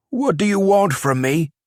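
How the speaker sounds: high, nervous question; frightened plea. A narrator's reading. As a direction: ask it scared and wary. Champion frightened.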